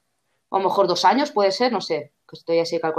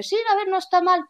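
imitating dad; 10 semitones higher than usual. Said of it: "Y me dice".

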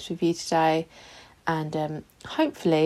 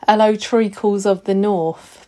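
slow mock greeting; 4 dB louder, slower than usual. Shown as a demonstration. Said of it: "That doesn't make any sense whatsoever".

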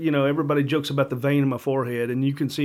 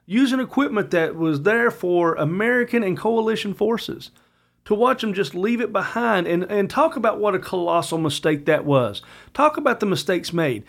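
a higher, heated outburst that keeps climbing; heated anger; 7 semitones higher than usual. Real, not acted. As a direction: let real anger push the voice up. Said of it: "I'm pissed off and I'm angry".

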